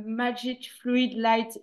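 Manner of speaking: "Magic Fluid Light" said slowly with French vowels and stress; French-accented English. Real, not acted. Presenter apologising to viewers for her French-accented English. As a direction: read the English app name the French way, slowly. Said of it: "je m'excuse d'avance de mon accent, euh, anglais".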